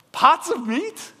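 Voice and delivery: high, slow, scoffing; preacher scoffing at the Israelites' complaint, high and slow; mock incredulous. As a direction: drag it out in disbelief. Mocking the complaint.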